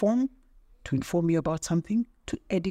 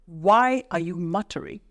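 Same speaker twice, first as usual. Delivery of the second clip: slow, pointed demand; mock exasperation; 4 dB louder than usual. Coach fed up with mumbling speakers, exasperated. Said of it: "I always wanna kill them".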